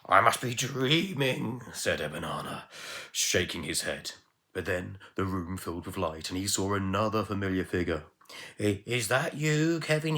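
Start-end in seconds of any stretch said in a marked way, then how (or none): 0.1-1.6 higher, louder, slow astonished miser; stunned disbelief. Acted. Stunned miser sees ghost. 8.6-10.2 high, louder, startled asking; startled question. Acted. Miser asks the spirit.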